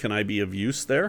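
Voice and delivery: plain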